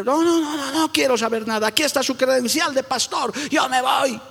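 indignant member quitting. Retold or imitated. Angry member quits, hands credential.

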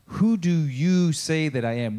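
slow, deliberate WHO DO YOU SAY THAT I AM; pointed question. Acted. Jesus turns right to his disciples and asks, pointed. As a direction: put each word squarely to them, slowly. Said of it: "turns it right to them and says".

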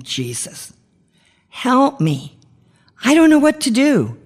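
een zacht begin, dan een hoge, smekende uitroep; crying out. Shown as a demonstration. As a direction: huil het uit naar God, hoger en hoger. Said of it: "I did that through tears, sobbing".

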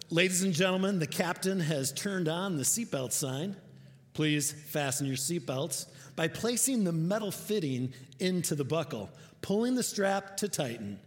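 flight attendant. Retold or imitated. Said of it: "I kinda have the flight attendant thing down".

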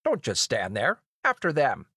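understated shout of command; barked order. Acted. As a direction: order the guards after them, half-shouted. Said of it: "he screams".

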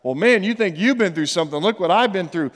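lightly boastful, lively challenge; mock bragging. Preacher paraphrasing Paul's boast about his sufferings, mock bragging. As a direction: play at one-upping someone. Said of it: "act like he's bragging".

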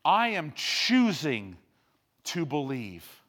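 preacher imitating a man crying out; crying out to the Lord. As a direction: call out in desperate faith. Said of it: "This man was crying out saying".

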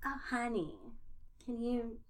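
put-on a light, slow 1920s Brooklyn accent; lightly imitated 1920s Brooklyn accent, gossiping about No-Mages. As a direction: drawl it like a 1920s Brooklyn gal. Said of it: "insane nineteen twenties Brooklyn accents".

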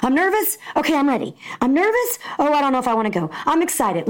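mimicking a jittery child; anxious kid. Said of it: "he went back and forth".

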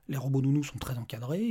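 usual speaking voice

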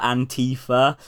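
"Antifa" said as an-TEE-fa; imitated pronunciation. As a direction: lean on the middle syllable of "Antifa". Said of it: "that's how he says it".

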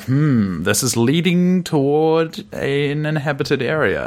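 searching soldier. Retold or imitated. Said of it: "they're like".

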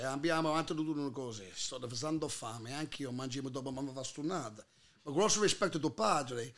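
quick low mock Italian; fake Italian, first way. Comedian's first fast take of the fake Italian line in an Italian accent. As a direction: rattle off the gibberish in an Italian accent. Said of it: "I take the same words".

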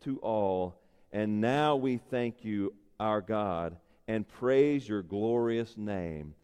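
slow, reverent reading of a prayer. Acted. Preacher reads a scripture prayer to God, reverently. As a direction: read it as if praying to God.

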